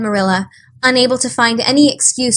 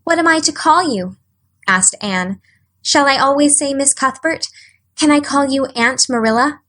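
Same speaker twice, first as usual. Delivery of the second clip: put-on a higher, eager young girl; Anne's voice; 5 semitones higher than usual. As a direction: ask hopefully.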